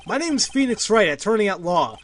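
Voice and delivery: lightly acted detective, judge and lawyer; voicing the game's courtroom cast; courtroom characters voiced. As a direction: give each character a touch of drama.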